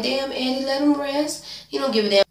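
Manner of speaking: high, incredulous scolding at the screen; exasperated reaction. Retold or imitated. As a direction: plead with the TV in a high voice.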